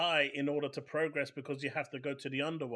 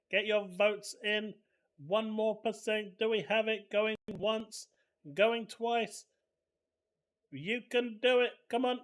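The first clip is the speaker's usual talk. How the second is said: auctioneer; 5 semitones higher than usual. Acted. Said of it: "Sounding like a bloody auctioneer right now".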